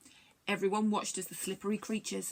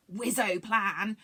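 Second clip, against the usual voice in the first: enthused; 4 dB louder, much slower than usual. Acted. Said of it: "enthused Rusin".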